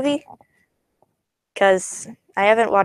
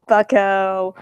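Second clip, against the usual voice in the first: louder drawn-out catchphrase, lightly put on; catchphrase impression; 4 dB louder than usual. Playing a guessing game with viewers about his catchphrase, lightly imitated. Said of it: "Usually he would say something".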